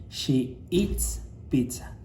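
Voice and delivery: slow model sentence. Shown as a demonstration. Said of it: "al final del verbo".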